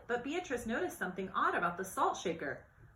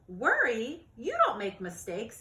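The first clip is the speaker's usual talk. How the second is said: smiling dad; 2 semitones higher, 5 dB louder than usual. Acted. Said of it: "he said with a smile".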